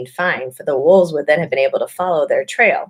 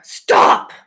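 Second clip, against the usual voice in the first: sharp command; 5 dB louder than usual. Acted. Witch commands the sledge.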